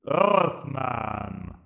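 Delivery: slow, cold robotic alien voice; Dalek voice. A narrator's reading. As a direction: speak like an unfeeling machine. Emperor speaks.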